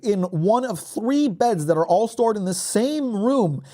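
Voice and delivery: high-pitched incredulous rant, drawn out on the price; outraged disbelief. Real, not acted.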